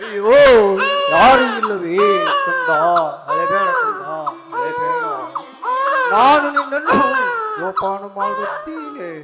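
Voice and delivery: put-on choked, tearful soothing of a baby; tearful comfort. Man finding the abandoned baby, comforting it tearfully. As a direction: console the foundling while near tears.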